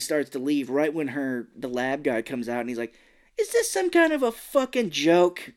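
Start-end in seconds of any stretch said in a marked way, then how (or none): 3.4-5.5 higher, louder acted outburst; hammed-up incredulous anger; mock outraged. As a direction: play the indignant lab guy demanding answers. Lab guy freaks out, retold.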